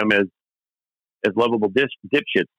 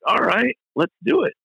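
band's yes, voiced much higher; high-pitched agreement; 13 semitones higher than usual. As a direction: agree in a light, raised voice. Quoting the band's agreement to proceed.

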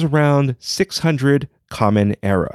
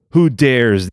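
mock roar; 3 dB louder than usual. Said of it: "The beast roared".

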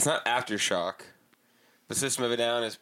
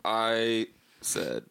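slow, halting reading of a forced apology; lightly voiced Trump reading a scripted sorry; mock forced apology; 2 semitones lower, much slower than usual. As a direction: read it off the paper like a scolded kid.

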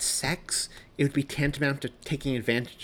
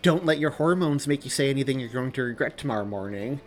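sarcastic warning, slightly raised voice; louder, pointed sarcasm; 4 semitones higher, 5 dB louder than usual. Acted. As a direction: warn her with a sneer. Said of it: "Joey interrupted sarcastically".

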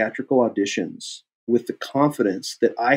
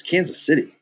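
imitating a judgmental director, higher pitch; judgmental echo; 4 semitones higher than usual. Director questioning actor's hometown, judgmental. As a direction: echo it back as a disapproving question. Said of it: "judgmental about it".

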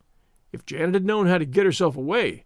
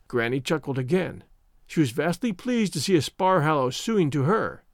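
plain reading voice

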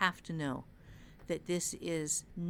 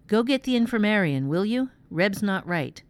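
loud, raised urgent command; urgent order; 2 semitones higher, 13 dB louder than usual. A narrator's reading. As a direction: send someone for help, urgently.

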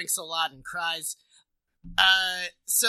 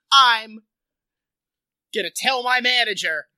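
flustered threat; 6 dB louder than usual. Retold or imitated. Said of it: "Best Western's just like".

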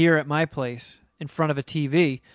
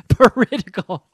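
teasing echo, louder; mock political; 3 semitones higher, 6 dB louder than usual. Real, not acted. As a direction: play it as a jab. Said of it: "Going political".

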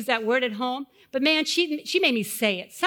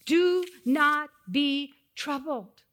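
slow reassuring; 3 semitones higher, much slower than usual. Retold or imitated. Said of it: "he says to them".

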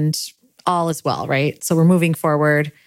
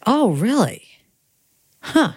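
dawning surprise; 7 semitones higher than usual. Retold or imitated. Realizing her own mistake.

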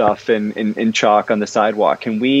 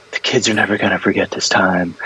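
lower-pitched, mock-profound pronouncement; slightly put-on deep voice; trying to sound deep; 4 semitones lower than usual. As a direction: say it low, as if aiming to sound deep. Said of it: "I was trying to sound deep".

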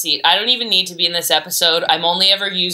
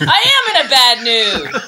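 laughing; 4 semitones higher, 3 dB louder than usual. Real, not acted. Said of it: "insists on her mood".

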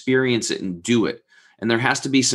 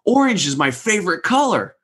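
much higher, thrilled retelling of the friend; delighted exclaim; 9 semitones higher than usual. Retold or imitated. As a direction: imitate a friend overjoyed by his favorite color. Friend delighted by orange painting.

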